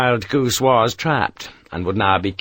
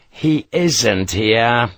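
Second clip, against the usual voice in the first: slow, tired denial; weary; much slower than usual. Acted. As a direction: drag it out, worn down. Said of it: "Sharp said wearily".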